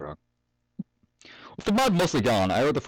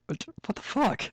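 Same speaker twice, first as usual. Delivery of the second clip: high rising disbelieving what the fuck; genuinely baffled, pitch shooting up; disbelief; 13 semitones higher, 4 dB quieter, slower than usual. Real, not acted. Commentator reacts to deep-fried hay.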